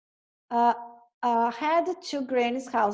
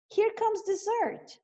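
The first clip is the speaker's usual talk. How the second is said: greedy wolf; 9 semitones higher, slower than usual. Acted. Greedy wolf hearing footsteps.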